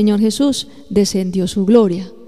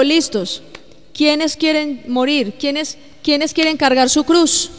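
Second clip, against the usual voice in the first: slow challenging question; 5 semitones higher, slower than usual. Acted. Jesus voiced asking the twelve.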